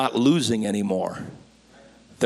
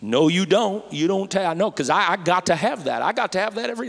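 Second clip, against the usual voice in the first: mock defensive protest; 5 semitones higher than usual. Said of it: "I'd say".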